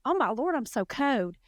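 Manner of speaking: Southern exclamation with "code" for cold; Southern accent, dropped L. Shown as a demonstration. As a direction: turn the L into a W, Southern style. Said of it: "L in most words. I use a W".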